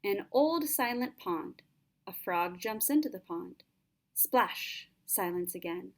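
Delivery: measured, gentle haiku recital; poem reading. Acted. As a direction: read the poem calmly. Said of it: "Let's take a look at that haiku I read again".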